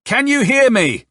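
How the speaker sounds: loud, high, drawn-out call; stretched-out, high shout; shouting to be heard. A narrator's reading. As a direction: holler it slowly down a bad line. Shouting down the telephone.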